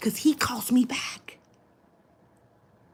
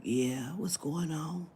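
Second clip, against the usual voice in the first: low, weak sick-sounding answer; a hint of a sick mother picking up the phone; lightly voiced ailing mother; sick mama voice; 5 semitones lower, 5 dB quieter, slower than usual. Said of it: "She sound like she sick".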